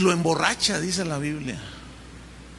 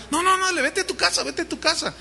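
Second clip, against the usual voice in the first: high, insistent mock urging; lightly voiced king pleading; mock coaxing; 8 semitones higher, faster than usual. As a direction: push him home in a raised pitch. Urías mimics David's urging.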